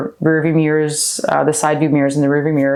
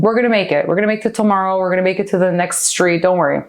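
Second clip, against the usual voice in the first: put-on soothing a kid; 3 semitones higher than usual. Adult self comforting little Laura, gently soothing. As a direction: reassure her it will all be fine. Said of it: "you gotta calm that little kid down".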